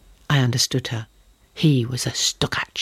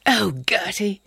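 tender whisper, higher; 7 semitones higher, slower than usual. A narrator's reading. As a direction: intimate whisper after the danger. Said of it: "he whispered after a moment".

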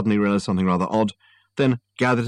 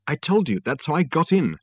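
female voice; 8 semitones higher than usual. Acted. Susan voiced by narrator.

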